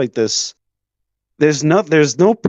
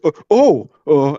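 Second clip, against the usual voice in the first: dumbfounded realization; 2 semitones higher, 3 dB louder than usual. Retold or imitated. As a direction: let it dawn on him, mock deflated. Guy realizing he was wrong.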